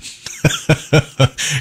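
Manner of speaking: short amused laugh; a quick chuckle. Real, not acted. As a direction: laugh at your own joke. Laughs at own accent joke.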